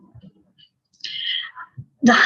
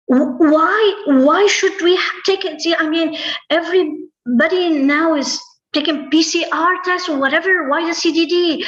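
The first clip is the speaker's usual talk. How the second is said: pitched-up, baffled questioning; mock outrage at the demand, voice raised high; indignant protest; 4 semitones higher than usual. Teller replaying her protest to the official, higher and baffled.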